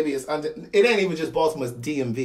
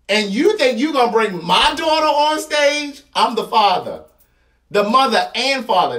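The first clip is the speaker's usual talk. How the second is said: raised, higher-pitched disbelief; incredulous protective dad, voice climbing; indignant father; 4 semitones higher, 4 dB louder than usual. Acted. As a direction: challenge them like an outraged parent. Plays himself as outraged father at concert.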